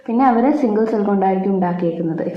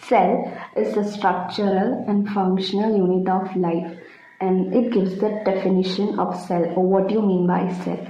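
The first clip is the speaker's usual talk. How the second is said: slow, careful dictation pace; much slower than usual. Acted. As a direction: spell it out for notes, slowly. Dictating definition slowly. (പതുക്കെ പറഞ്ഞുകൊടുക്കുന്ന രീതി)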